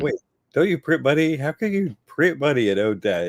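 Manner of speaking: high, quick mock disbelief; mock incredulous. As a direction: scoff like a baffled citizen. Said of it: "It's like".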